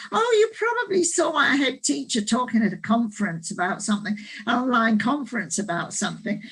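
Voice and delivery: put-on Australian accent. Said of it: "this is my Australian accent".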